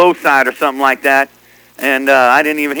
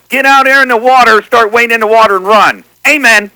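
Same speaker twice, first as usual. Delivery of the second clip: mock prayer; 2 semitones higher than usual. CB buddy mock-prays for a rival on the radio, preacher style. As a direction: pray over the radio like a preacher whipping up to a finish. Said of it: "Let's pray".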